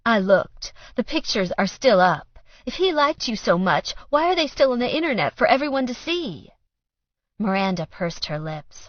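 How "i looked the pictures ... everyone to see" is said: loud, higher pressing questions; bitter pressing. A narrator's reading. Mother pressing daughter, loud and higher. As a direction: press her hard.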